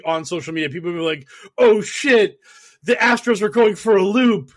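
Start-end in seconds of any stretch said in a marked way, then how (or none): 1.6-4.5 excited fan. Retold or imitated. Voiced hyped fan quote.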